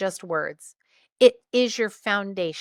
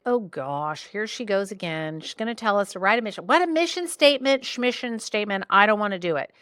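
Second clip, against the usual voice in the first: mocking eye-roll grumble; faster than usual. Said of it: "I always get the eye roll".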